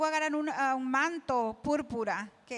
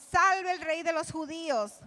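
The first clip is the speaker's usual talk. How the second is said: raised-pitch mock acclamation in Spanish; mocking hail; 4 semitones higher than usual. Interpreter voicing the jeering soldiers, raised mocking hail. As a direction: proclaim it as mock homage, pitched up. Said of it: "Se están riendo".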